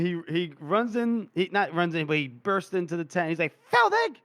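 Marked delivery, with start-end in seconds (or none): 3.7-4.2 high, loud shout of a name; angry call. Retold or imitated. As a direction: burst in yelling for him. Gorse bursts into tent, calling.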